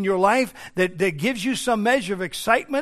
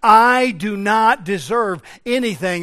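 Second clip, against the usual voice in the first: forceful prayer, pushed on key words; impassioned plea; 2 semitones higher, 6 dB louder than usual. Retold or imitated. Preacher voices psalmist confessing to God, impassioned plea. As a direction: pour it out to God from the pulpit.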